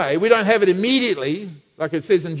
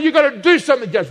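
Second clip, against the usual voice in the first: mock pleading widow; 4 semitones higher, 4 dB louder than usual. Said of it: "she pleaded".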